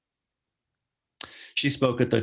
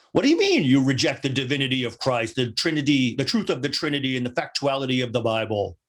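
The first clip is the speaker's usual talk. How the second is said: incredulous. Retold or imitated. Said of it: "the incredulity driving the emphasis".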